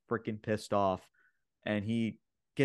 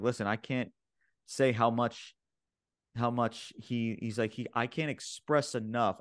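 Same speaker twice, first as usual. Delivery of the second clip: halting, stumbling restarts; stuttering. Real, not acted. Co-host too excited retelling the segment, stuttering. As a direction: stumble and restart through the line. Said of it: "I'm stuttering so much".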